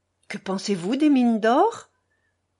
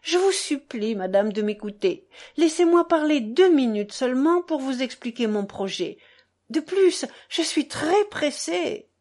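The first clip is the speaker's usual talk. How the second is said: mild exalted cry; 3 semitones higher than usual. Acted. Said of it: "cria Mitya avec exaltation".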